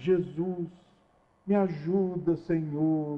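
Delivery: soft, slow, sugary, honey-sweet syrupy voice. Showing how people's voice changes when speaking to jesus, in a syrupy sweet voice. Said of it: "Aí aquela voz melosa".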